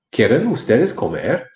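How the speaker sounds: lilting question, up at the end of "comer"; question intonation. Shown as a demonstration. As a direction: ask "quieren ustedes comer" in big swoops, "comer" rising. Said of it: "It's a matter of voice inflection".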